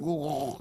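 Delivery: long throaty camel moan; imitated camel groan. Comedian voicing the camel in a nursery rhyme, throaty groan. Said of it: "and the camel went".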